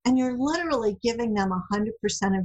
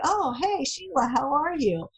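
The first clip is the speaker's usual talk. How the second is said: playful mock greeting, pitched higher; teasing greeting; 6 semitones higher than usual. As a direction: tease her lightly, like greeting Sheila. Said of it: "He'd laugh at me and say".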